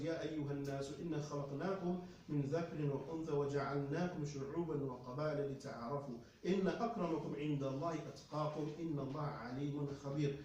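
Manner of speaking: fast, measured Arabic chant; quranic recitation. Acted. Preacher recites the verse to the congregation in Arabic. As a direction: recite the verse steadily, in one breath.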